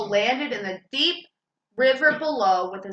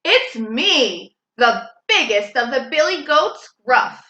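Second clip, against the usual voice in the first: loud strong voice; 4 dB louder than usual. Acted. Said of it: "in a loud, strong voice".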